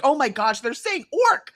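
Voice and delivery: high, laughing realization; laughing disbelief. Retold or imitated. Host recalls discovering the orcs' words, laughing. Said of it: "And we're like".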